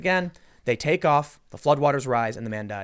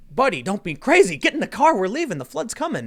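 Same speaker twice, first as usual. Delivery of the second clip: high, loud call to get in the car; urgent rescuer shout; 9 semitones higher, 6 dB louder than usual. Retold or imitated. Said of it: "they were like".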